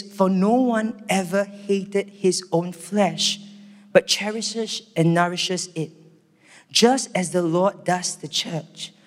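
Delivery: slow, measured reading; solemn scripture reading. Acted. Preacher reading Ephesians to the church, slow scripture reading. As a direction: read the verse slowly and gravely.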